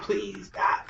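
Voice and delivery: mock crying plea. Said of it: "Crying out".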